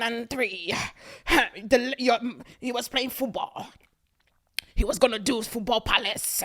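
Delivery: a hint of a sulky man making excuses; mock excuse voice. Mocking the ex's excuse for his friends, lightly whiny. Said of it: "Every excuse".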